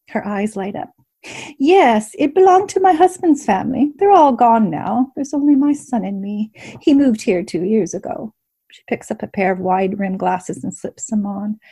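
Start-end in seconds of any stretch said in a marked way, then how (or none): 1.6-8.3 higher, genteel landlady voice; a gracious old hostess; older innkeeper woman. Acted. Innkeeper character speaks.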